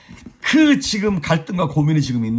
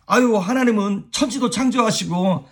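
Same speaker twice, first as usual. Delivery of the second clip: put-on a higher, sulky sigh of grievance like a child losing an argument; exasperated Job; 6 semitones higher than usual. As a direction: grumble at God, half mocking. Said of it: "이게 지금 욥의 뉘앙스입니다".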